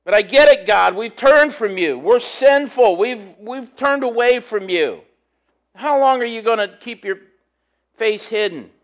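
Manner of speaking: lightly voiced Isaiah begging God; preacher voicing Isaiah's plea to God; crying out to God. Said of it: "he's crying out to God".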